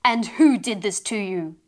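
put-on a mother demanding who hurt her child; angry. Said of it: "this time angrily".

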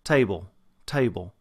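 Texan "table" with a very distinct diphthong; strong Texas glide in "table"; Texas accent. Shown as a demonstration. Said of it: "When you have a Texas dialect".

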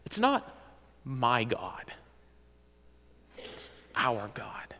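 unvoiced whisper, our God. Preacher hushing the congregation, whispered. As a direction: breathe it out softly, slow.

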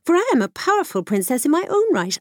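a proud princess demanding; cartoon princess. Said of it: "who stamped her foot and said".

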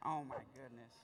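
hushed awe at the revelation; awed hush. Real, not acted. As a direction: let the wonder drop you to a hush. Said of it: "preacher overcome".

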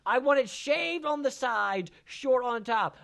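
slow, high, spelled-out order; emphatic instructions. Retold or imitated. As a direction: spell it out slowly for a barber. Retold instructions to the barber.

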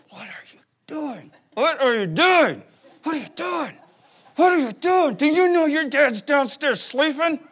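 hissed then snapping mom rebuke; through gritted teeth. Retold or imitated. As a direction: scold the boys through clenched teeth. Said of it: "The gritting of the teeth thing".

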